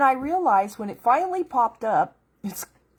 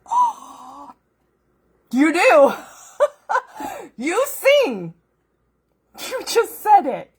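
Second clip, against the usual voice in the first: much higher and louder, bursting with joy; thrilled realization; 10 semitones higher, 8 dB louder, much slower than usual. Retold or imitated. Discovering the verse, she cries out to God in delight. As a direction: let the discovery burst out of you.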